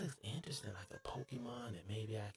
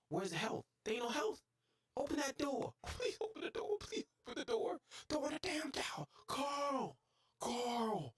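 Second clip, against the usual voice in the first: much higher, frantic yelling; panicked; 10 semitones higher than usual. Real, not acted. Gamer being zapped and begging for the door, frantic and high. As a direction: scramble and plead in a rush.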